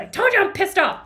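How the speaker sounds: re-enacted snappy outburst; retold snapping. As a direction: snap back, irritated. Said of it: "and I snapped".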